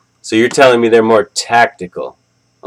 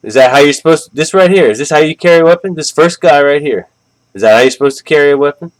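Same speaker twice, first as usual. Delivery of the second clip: higher, louder, fast disbelief; incredulous; 4 semitones higher, 4 dB louder, faster than usual. Real, not acted. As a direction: challenge it in disbelief. Mocking the militia's weapon handling.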